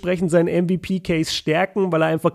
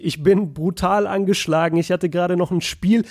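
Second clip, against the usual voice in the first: sick with cough. Real, not acted. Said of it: "bei jedem zweiten Satz husten".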